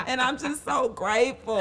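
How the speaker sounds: hammed-up choked-up gratitude; Brandis. Co-host imitating her friend thanking supporters, mock tearful. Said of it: "let me just do my Brandis".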